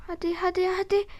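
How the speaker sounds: high urgent urging; being chased. Real, not acted. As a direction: push them on, voice climbing. Urging to escape.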